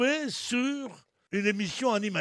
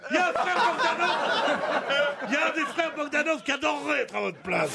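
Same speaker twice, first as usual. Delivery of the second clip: laughing shout; 5 semitones higher than usual. Real, not acted. Calling to audience, laughing.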